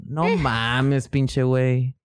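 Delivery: put-on Mexican accent. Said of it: "Pues, es mexicano".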